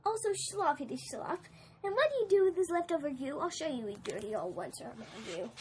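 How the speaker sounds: lightly voiced scolding Lorax; a hint of the Lorax, reproachful and sad. Lorax scolding the Once-ler.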